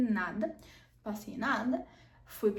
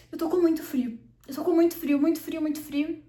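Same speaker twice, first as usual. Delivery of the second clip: mildly urgent repeated complaint, a bit higher; retold complaint of cold; 4 semitones higher, 5 dB louder than usual. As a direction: act out an insistent plea about freezing. Retold pleading while cold after surgery.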